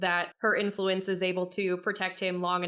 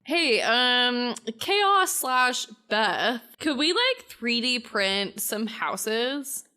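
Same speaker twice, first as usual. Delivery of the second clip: mock comms call; 5 semitones higher, 4 dB louder, slower than usual. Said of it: "be like".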